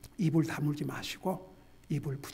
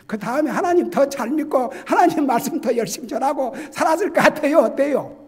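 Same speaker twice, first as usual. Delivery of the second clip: louder, higher, pressing the question; preaching at full force; 9 semitones higher, 11 dB louder than usual. Acted. Preacher challenging his congregation about Jonah, in a loud, pressing voice. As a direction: drive the question home like a revival preacher.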